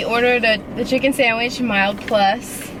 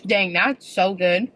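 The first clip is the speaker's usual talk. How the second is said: crunching chips. Real, not acted. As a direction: mouth full of crunchy food. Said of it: "they can hear my crunching".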